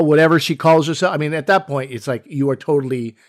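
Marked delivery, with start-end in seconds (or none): 0.0-1.1 mock-dismissive, tossed off; vindictive dismissal. Imitating a jerk on purpose, mildly vindictive dismissal. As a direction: lightly imitate a spiteful man brushing her off. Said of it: "that was a vindictive white man".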